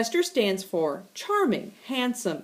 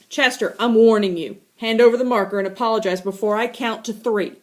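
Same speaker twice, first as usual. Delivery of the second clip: stern warning; 5 dB louder, faster than usual. Acted. Warning the cat.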